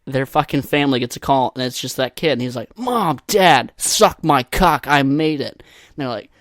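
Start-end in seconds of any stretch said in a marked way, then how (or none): 2.8-5.6 hammed-up bragging announcement; mock triumphant son. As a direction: crow about it to your parents. Imagined son boasting to parents by phone.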